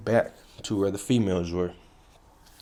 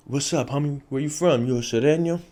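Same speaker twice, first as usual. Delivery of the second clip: confronting a rival; 5 semitones higher than usual. Retold or imitated. Confronting a rival gang member.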